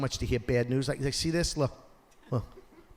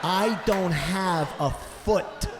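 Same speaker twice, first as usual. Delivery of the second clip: slow, higher, mock-pitiful limping fan; slow mournful; 5 semitones higher, slower than usual. A hammed-up fan telling the comic he has no foot, slow and mournful. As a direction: drag it out, pitiful and a touch higher.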